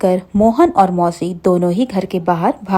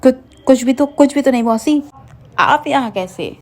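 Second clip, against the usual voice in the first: stuttering in panic, voice pitched higher; flustered stammer; 6 semitones higher than usual. A narrator's reading. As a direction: caught off guard, trip over the first words. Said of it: "तभी मोहन हड़बड़ा जाता है".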